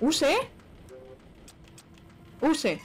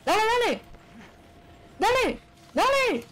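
higher, urgent repeated urging; urgent cheering; 9 semitones higher than usual. Real, not acted. Player urging the attack on during a fight, urgent cheering. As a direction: push it on hard, excited.

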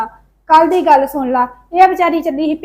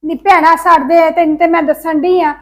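louder, exasperated venting to her sister; upset loud complaint; 5 dB louder than usual. Acted. Woman loudly vents to her sister about in-laws, exasperated. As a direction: let it burst out, fed up and loud.

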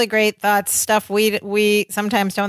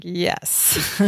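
laughing yes; 3 semitones lower, 5 dB quieter than usual. Retold or imitated. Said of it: "Larry's like".

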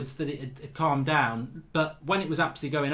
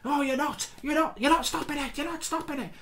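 lightly hammed-up Bob brushing off a classmate; mock retort; 13 semitones higher than usual. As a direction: pitch up, dismissive teen. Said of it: "And he goes".

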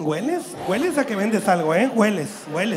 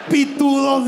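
quoted shouted answer; 4 semitones higher, 5 dB louder, slower than usual. Retold or imitated. Quoting the young man's answer, blurted loud.

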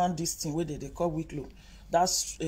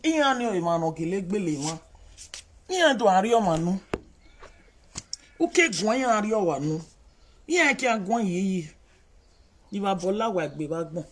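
louder mocking babble of fools; hammed-up nonsense talk; mock gibberish commenter; 5 dB louder than usual. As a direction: lampoon the foolish commenters. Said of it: "those yeye people wey be say".

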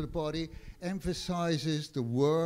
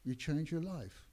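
measured sermon delivery; preacher stressing each phrase to the congregation; preaching. Acted. Preacher to congregation, earnest sermon cadence.

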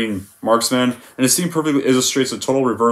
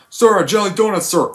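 higher, timid recruit answering; Private Pyle; 7 semitones higher than usual. Retold or imitated. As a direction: answer meekly, staying at attention. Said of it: "How does the scene go?".

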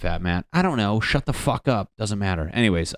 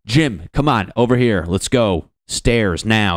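bossy escort; 2 semitones higher, 6 dB louder than usual. Pretend. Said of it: "alpha escort that just brings your family around".

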